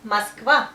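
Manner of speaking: "Moskva" as mask-VA, loud. Shown as a demonstration. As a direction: stress the last syllable of "Moskva", first vowel A. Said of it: "but we also say A because of stress".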